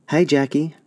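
calling out. A narrator's reading. Girl calls from train.

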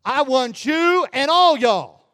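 slow, homely Southern phrasing; Mississippi paraphrase. Shown as a demonstration. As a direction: lean into the Southern y'all. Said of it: "we'd put it this way".

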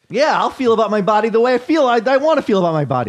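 loud playful outrage; mock indignant rant. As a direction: ham up the indignation.

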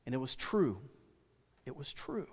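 quiet, fading repeat; soft affirmation. Shown as a demonstration. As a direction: let it fade to a hush.

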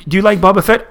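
high caricature filmmaker voice; George Lucas. Retold or imitated. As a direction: offer a new lure in a put-on high voice. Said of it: "Why does George Lucas always sound like that".

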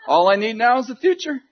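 laughing. Real, not acted. Preacher laughing to the crowd about lacking the future, loud laughing. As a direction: laugh at the absurdity of it. Laughing at his own predicament.

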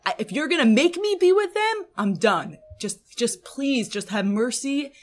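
a worn-out leader begging God to be let go; desperate Moshe plea. Retold or imitated. Moshe pleading with God to take him, desperate and exhausted. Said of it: "he's like".

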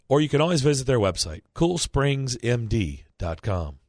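upbeat sponsor read, selling it; radio ad read. Acted. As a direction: read it like a live radio spot.

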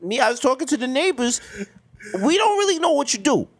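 high, nosy Jewish neighbor voice; Jewish accent. Pretend. Neighbor questions the entertainer's line of work, Jewish accent. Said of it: "doing a Jewish accent".

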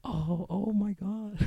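breathy swoon. Retold or imitated. Impressed girls imitated.

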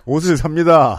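clipped drill sergeant phrasing; Korean military style. Pretend. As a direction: bark it like a boot camp instructor. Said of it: "유격 조교 말투잖아요".

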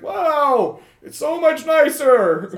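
lightly voiced nerdy ghost; a hint of a pleased nebbish spirit; nervous ghost. Ghost impressed by the new floor, lightly voiced. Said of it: "he looks around, he's like".

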